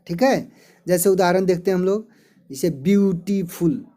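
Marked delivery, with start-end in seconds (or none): 2.7-3.8 ब्यूटीफुल in three beats, ब्यू-टी-फुल; ब्यूटीफुल carefully divided for learners; syllable by syllable. Shown as a demonstration. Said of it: "ये तीन syllable के".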